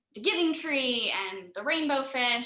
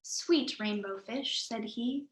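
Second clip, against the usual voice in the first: story narration. A narrator's reading. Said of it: "reading posture".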